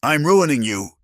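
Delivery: climbing pitch, getting upset; voice rising. A narrator's reading. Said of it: "her voice rising".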